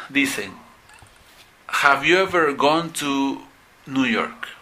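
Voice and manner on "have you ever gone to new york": slow wrong example. Shown as a demonstration. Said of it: "Está mal".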